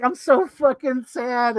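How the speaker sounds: high, slow, hammed-up wail; exaggerated sobby misery; mock breakdown. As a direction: imitate someone breaking down, dragging the words out. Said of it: "both characters break down".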